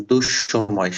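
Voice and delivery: দুঃসময় said as dush-shomoy, sh held double; দুঃসময়: double the শ after du; দুঃসময় with a long doubled sh sound; visarga doubling. Shown as a demonstration. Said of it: "শটা double হবে".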